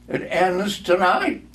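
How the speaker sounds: the dying spirit speaks solemnly; solemn ghost. Acted. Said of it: "replied the ghost".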